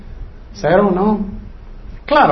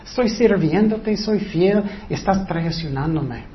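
hurt; 6 dB quieter than usual. Acted. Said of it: "en el corazón de David él podía sentir".

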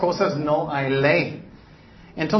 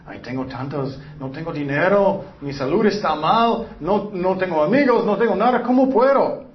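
complaint building higher and louder to a desperate cry; whiny complaint; 3 semitones higher, 4 dB louder than usual. Retold or imitated. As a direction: pile up the woes until the voice breaks upward. Voicing a despairing complainer.

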